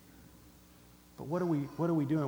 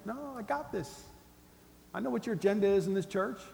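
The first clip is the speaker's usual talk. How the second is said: arrogant brush-off; 5 semitones higher than usual. Acted. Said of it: "you're arrogant".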